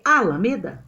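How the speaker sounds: "Alameda" with the first A hit hard; stress on first syllable. Shown as a demonstration. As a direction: test "Alameda" as A-lameda, first syllable strongest. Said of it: "Quem é a sílaba tônica mais forte?".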